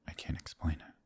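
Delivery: moved, faltering whisper. Acted. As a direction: whisper it, lost for words. Overwhelmed by listener's sympathy.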